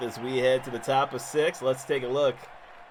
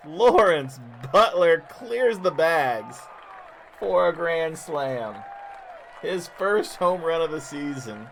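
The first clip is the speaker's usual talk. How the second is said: louder and slow, savouring it; excited; 4 semitones higher, 5 dB louder than usual. Acted. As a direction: lean into the big moment. Repeating the grand slam call.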